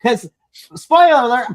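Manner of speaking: ordinary talk, nothing marked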